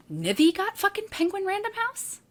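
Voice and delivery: high, shocked outburst at a friend's news; stunned disbelief. Retold or imitated. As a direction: replay that jealous jolt of surprise. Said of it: "And my first feeling was".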